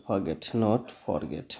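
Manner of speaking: very slow, forget set against forget; a teacher contrasts the two forms slowly. Shown as a demonstration. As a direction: draw out both forms of forget side by side. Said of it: "यहाँ पे फॉरगेट पढ़ेंगे".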